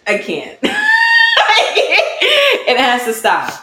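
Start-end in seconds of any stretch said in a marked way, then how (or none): 0.6-2.7 laughing. Real, not acted. Laughing at her mocked voice.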